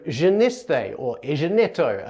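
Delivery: "geneste" and "egeneto" with g as a J sound; soft J for gamma. Shown as a demonstration. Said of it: "more like a J sound".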